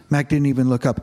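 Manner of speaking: reads the novel aloud to his congregation, steadily; a pastor reading a novel passage to the church, in a narrating voice; story narration. A narrator's reading.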